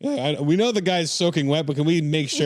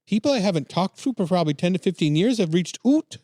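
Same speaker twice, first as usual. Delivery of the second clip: lightly voiced Canadian woman, pitched higher; put-on Canadian accent; 5 semitones higher than usual. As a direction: read the quote in a mock Canadian accent. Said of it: "Canadian voice".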